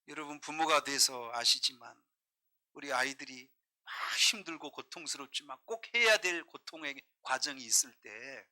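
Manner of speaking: ordinary delivery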